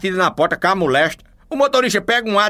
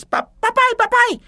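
put-on much higher, a child's voice throughout; small boy's voice. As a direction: speak like an excited little boy telling his dad. Little boy reports to father.

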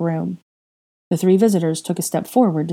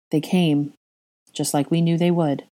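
monotone. Acted. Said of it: "Draco spoke in monotone".

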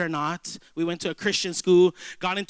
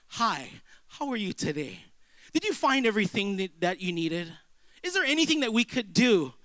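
friendly cashier. Retold or imitated. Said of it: "an excellent cashier".

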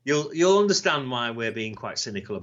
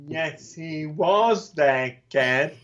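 Sid's voice; 3 semitones higher, much slower than usual. Retold or imitated. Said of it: "Sid would be going".

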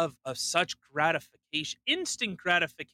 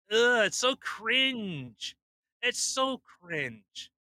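slow, drawn-out cringe; slow contemptuous groan; disgusted; 5 semitones higher, much slower than usual. Real, not acted. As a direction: drag out the disgust.

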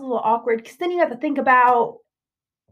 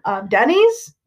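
whispering; 4 dB louder, slower than usual. Real, not acted. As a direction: breathe it out in a whisper. Whispered suggestion.

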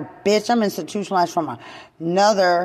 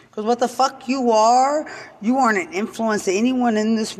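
raised, higher furious jab; angry outburst; 4 semitones higher than usual. Real, not acted. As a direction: spit it out at them in anger. Angry rant at detractors.

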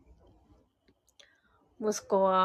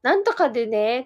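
child's non-Kansai standard Japanese, lightly mimicked; standard Japanese imitation; 4 dB louder than usual. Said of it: "関西弁っぽくない時あるやん". (標準語っぽい口調の物まね)

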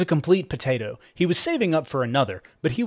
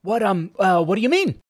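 playing dumb; 7 semitones higher, 3 dB louder than usual. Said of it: "Cooper played dumb".

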